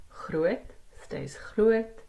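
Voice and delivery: slow. Shown as a demonstration. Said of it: "lesson example".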